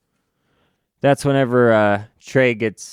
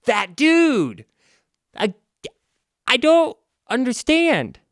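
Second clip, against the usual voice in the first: much higher, confused whine; dopey hero voice; 10 semitones higher, slower than usual. Retold or imitated. Rage confused about the villain, high dopey whine. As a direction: play Rage baffled and slow. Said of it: "And Rage says".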